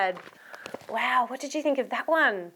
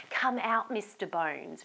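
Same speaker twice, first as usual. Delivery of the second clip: gentle call; 5 semitones lower, 7 dB quieter than usual. Shown as a demonstration. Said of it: "You have to say".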